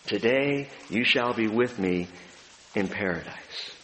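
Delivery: soft, low, tender promise; a hushed, moved quote of Jesus; touching promise. Retold or imitated. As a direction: let it land gently and quietly. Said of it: "profound, beautiful, touching statement".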